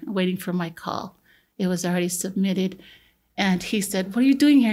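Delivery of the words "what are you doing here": higher, louder mock-angry dad; mild retold anger. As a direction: act out a mildly angry father confronting his son. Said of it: "And he was so mad at me".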